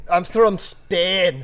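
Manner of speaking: high, slow, put-on Scottish-Spanish voice; Sean Connery as Ramirez. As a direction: play Connery's Spaniard, slowly. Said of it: "No, that's so horrible".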